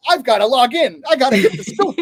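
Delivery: loud, high mock excitement; hammed-up news junkie alarm; mock urgency. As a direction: pretend you're frantic for the scoop. Mock eagerness for Trump news.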